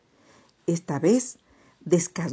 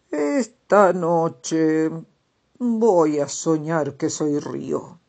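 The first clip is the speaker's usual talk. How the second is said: slow, louder dreamy toad; storybook toad voice; 3 dB louder, slower than usual. Acted. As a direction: tell the dream slowly, savoring it. Toad announces next dream.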